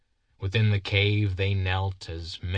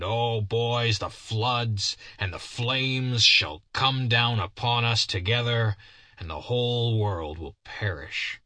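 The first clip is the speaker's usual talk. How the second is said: fervent warning. Acted. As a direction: build into a prophet's fiery warning. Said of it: "he said earnestly".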